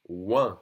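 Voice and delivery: "ouin" as a drawn-out nasal w-sound; French OIN sound. Shown as a demonstration. Teacher demonstrating O I N, "ouin" slow and nasal. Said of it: "O I N together is the sound ouin".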